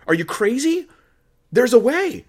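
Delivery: high, loud disbelieving cry; incredulous outburst. Real, not acted. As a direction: exclaim it as if the idea is absurd.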